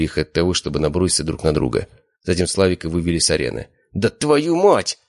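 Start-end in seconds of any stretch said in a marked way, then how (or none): 3.9-5.0 high, loud, slow furious curse; furious shout. A narrator's reading. Slavik led off the arena, furious shout. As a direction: spit out the curse slowly. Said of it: "закричал он".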